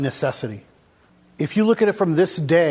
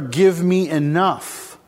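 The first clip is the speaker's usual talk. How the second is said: slow "Give me enough", with the weight on "enough"; stress on enough; much slower than usual. Retold or imitated. Quoting other cultures' prayer, slow with "enough" stressed. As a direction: lean hard on "enough" and take your time. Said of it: "They emphasize the word enough".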